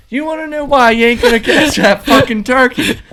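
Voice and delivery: high, loud mocking rant at a coworker; imitated angry shout. Pirate coworker taunting the kid about the turkey, loud angry shout. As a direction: yell it like a furious hothead goading someone. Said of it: "He's getting more and more pissed".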